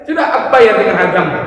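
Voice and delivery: very high, urgent pleading, a little laugh in it; pleading shopkeeper. Acted. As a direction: beg him to stop crying, I'll pay. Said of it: "Penjual baju itu mengatakan".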